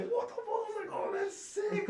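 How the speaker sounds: loud, high laughing surprise; excited. Retold or imitated. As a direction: blurt it out laughing. Retold surprise, laughing loudly.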